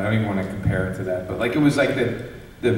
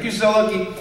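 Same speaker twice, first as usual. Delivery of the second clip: mock scolding brother; 10 semitones higher than usual. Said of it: "he's like".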